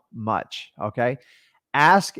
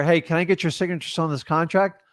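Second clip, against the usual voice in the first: bad phrasing; 3 semitones higher than usual. Shown as a demonstration. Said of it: "you see how I just switched the words".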